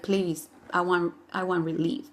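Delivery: soft, low, slowing plea; weary plea. Retold or imitated. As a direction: act out begging for relief, voice dropped. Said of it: "even though you're scared, you're more like".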